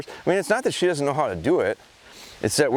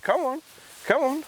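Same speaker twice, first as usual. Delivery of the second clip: much higher, bright coaxing call; encouraging call. Real, not acted. Trainer urging his dog on, high coaxing. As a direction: coax the dog to keep coming.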